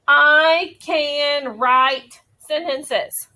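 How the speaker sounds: very slow, separated words. Shown as a demonstration. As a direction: read as if pointing at each word. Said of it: "Notice how I use my pointer power".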